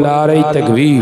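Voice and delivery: নারায়ে তাকবীর cried out loud; loud rally cry; loud takbir call. Real, not acted. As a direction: push the call harder to rouse the crowd. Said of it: "আর একটু জোরে বলেন".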